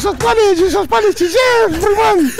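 hammed-up Ivorian mom calling school; accent ivoirien exagéré, voix aiguë; mock Ivorian accent mother.

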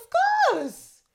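very high, loud French exclaim; French accent. Retold or imitated. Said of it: "it's like".

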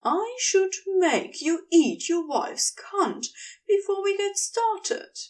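a hint of a foreign accent, leaning hard on words; a touch of heavy-accented crude lover; lightly voiced Gabriel. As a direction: push each word hard, lightly accented. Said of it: "Gabriel's accent pushed too hard on the word".

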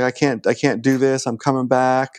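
lightly mimicked sobbing plea; crying on the phone. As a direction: imitate a kid whimpering to his mother. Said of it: "he's crying into the phone".

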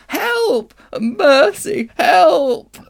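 high, pleading witch's cry; faint cry. Acted. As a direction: beg for mercy, weakly. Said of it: "cried the witch in a faint voice".

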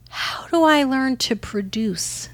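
drawn-out, pleading mock-naive question; imitating her younger self. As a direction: ask it slowly, like a naive beginner. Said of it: "and being like".

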